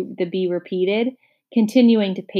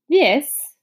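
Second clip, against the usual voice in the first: raised, scornful introduction; haughty, louder disdain; disdainful; 6 semitones higher, 4 dB louder than usual. A narrator's reading. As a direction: look down your nose at him. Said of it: "said the bee with complete disdain".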